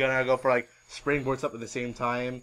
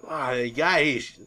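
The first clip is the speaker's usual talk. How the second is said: ordinary talk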